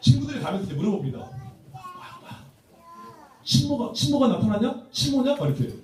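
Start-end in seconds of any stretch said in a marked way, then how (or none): 3.4-5.3 high-pitched, louder jeering schoolkids; hammed-up teasing questions; mock teasing. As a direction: imitate friends poking fun, pitched way up. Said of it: "막 놀리는 거죠".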